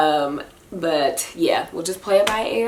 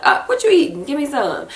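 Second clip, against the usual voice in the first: put-on lightly higher baby voice; voicing the baby; 7 semitones higher than usual. Mother voicing what baby girl thinks. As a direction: speak for the baby. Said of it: "She's like".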